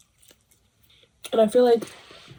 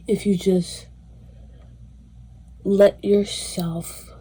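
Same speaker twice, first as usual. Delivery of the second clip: whispered plea; much slower than usual. Shown as a demonstration. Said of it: "softly drawn out".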